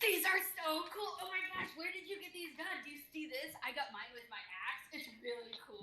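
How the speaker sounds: high-pitched fangirl gush, easing down; excited gushing. Acted. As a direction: gush in character over something amazing. Excited character gushing over tattoos.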